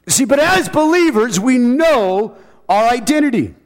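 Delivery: high, emphatic preacher's declaration; full-force preaching. Real, not acted. Preacher reminding believers of their identity, preaching high. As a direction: ring it out to the church.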